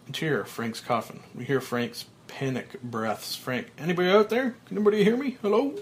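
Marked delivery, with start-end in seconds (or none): 3.8-5.8 high, loud desperate call; calling for help. Acted. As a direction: shout up from the coffin. Buried Frank calls for help.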